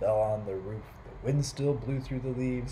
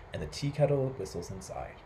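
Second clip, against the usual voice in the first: put-on complaining old man; 4 dB quieter than usual. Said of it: "And Peter said".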